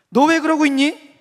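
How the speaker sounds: loud, high, drawn-out mock question; imitated blunt challenge, high and loud; thrown-out question. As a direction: toss it out hard, pitched right up. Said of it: "모르는 사람이 지나가면서 툭 던지는 말처럼".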